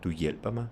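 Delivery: "hjælper" stressed, "Du" and "mig" unstressed. Shown as a demonstration. Teacher reversing the persons, stress only on "hjælper". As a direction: keep "Du" and "mig" light around "hjælper". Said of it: "Same thing again".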